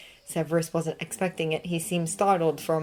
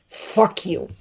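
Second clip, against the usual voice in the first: hissed curse; 4 dB louder than usual. Acted. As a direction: spit it through a hiss. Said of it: "Severus hissed".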